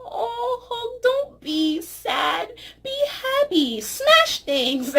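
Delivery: high, tearful comfort; comforting Hulk. Retold or imitated. Vlogger comforting sad Hulk, high teary coo. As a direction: soothe him through a laughing sob. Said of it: "I'm like".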